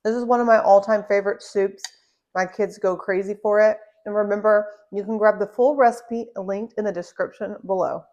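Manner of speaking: talking with mouth full; words around a bite of soup. Real, not acted. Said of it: "Sorry, talking with my mouth full".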